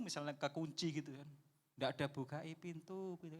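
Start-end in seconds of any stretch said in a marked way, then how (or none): 2.1-3.4 soft, slow, half-hearted asking; the wrong way, too meek; slow, softer "Bukai pintu" with no urgency; limp mumble. Shown as a demonstration. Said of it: "nggak gitu".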